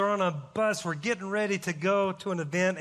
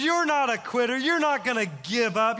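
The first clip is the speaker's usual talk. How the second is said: retold yell; 4 semitones higher than usual. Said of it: "this guy's yelling on the bus".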